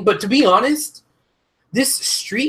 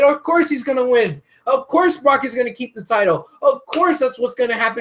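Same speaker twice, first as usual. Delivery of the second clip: retold prediction; 5 semitones higher than usual. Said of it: "I sat here and I said".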